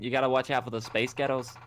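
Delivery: casual put-on American; American accent. Shown as a demonstration. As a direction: warn them in an American accent. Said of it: "in an American one".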